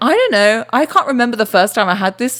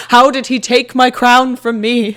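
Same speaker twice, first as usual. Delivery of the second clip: slow, mock-outraged royal lament; indignant deposed king; 2 semitones higher, 3 dB louder, slower than usual. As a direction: play a king robbed of his crown.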